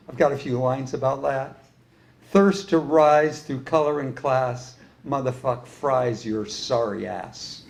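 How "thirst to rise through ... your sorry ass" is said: slow, measured poetry reading; poem recital. Acted. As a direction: recite the verse slowly, line by line. Recites own lines of poetry.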